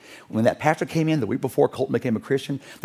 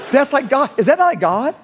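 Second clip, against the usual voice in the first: much higher and louder, laughing through it; laughing wonder; 11 semitones higher, 5 dB louder than usual. Real, not acted. Preacher telling the congregation his awed reaction, laughing. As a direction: marvel aloud with delighted laughter.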